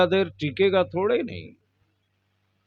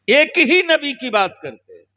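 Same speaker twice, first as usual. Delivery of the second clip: taunting; 7 semitones higher than usual. Retold or imitated. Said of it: "ताना देकर कहता है".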